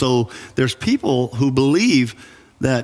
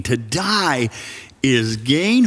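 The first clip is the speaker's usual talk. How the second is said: "To die is gain?" with a pause before "is gain" and a rising question on "gain"; incredulous echo; slower than usual. Shown as a demonstration. Pastor echoing Paul back at the congregation, disbelieving. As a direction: turn the quote into a disbelieving question. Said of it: "Who talks like that?".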